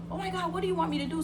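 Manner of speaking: high, rushed imitation of panic; panicked. Terrified cousin to the bleeding girl, panicked. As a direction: re-enact a frantic cousin asking for direction. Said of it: "she went into panic mode".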